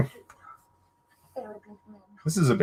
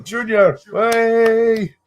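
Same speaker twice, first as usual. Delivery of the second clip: half-mocking call of Junior, higher and a bit louder; Connery-style call; 10 semitones higher, 4 dB louder, much slower than usual. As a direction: call out Junior like a gruff father, lightly done. Imitating Connery calling Indy.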